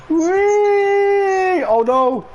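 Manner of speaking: high, loud laughing oh no; startled yelp. Real, not acted. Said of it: "Especially when you're like, "Oh no!".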